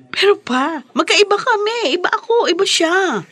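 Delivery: a daughter insisting to her father that she is not like her mother-in-law; heated protest. Acted. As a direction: push it up high in frustrated defiance.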